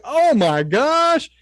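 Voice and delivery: drawn-out high gasp of awe; mock awe. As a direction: stretch it out, wide-eyed and high. Party reacting in awe.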